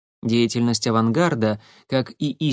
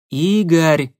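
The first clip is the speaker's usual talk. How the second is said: pleading; 5 semitones higher, 6 dB louder than usual. Acted. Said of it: "взмолилась Марина".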